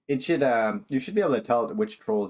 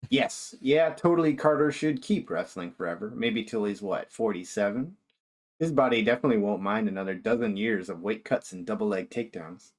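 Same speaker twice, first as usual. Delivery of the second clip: internet troll. Acted. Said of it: "in the voice of a sarcastic internet troll".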